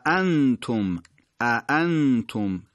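both hamzas in اانتم said sharply; two crisp glottal stops in اانتم; اانتم with two clear hamzas; double hamza demo. Shown as a demonstration.

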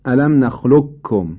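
نخلقکم as nakhluk-kum, qaf fully gone; slow recitation of نخلقکم with one doubled kaf; full assimilation. Shown as a demonstration. Teacher repeating the example, نخلقکم with no trace of qaf. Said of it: "هیچ اثری از آثار قاف شما اینجا نمیبینید".

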